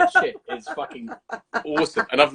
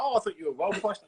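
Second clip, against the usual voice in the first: surprised acquaintance; 4 semitones higher, 5 dB quieter than usual. Retold or imitated.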